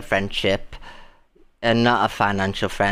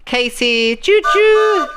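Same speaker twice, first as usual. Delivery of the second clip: high, loud sing-song cheer for a gift; excited squeal; 6 dB louder, much slower than usual. Real, not acted. Thanking Katie for a gift, high excited squeal. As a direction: whoop it out like a train whistle.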